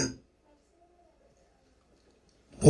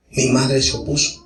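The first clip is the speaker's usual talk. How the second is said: normal talking voice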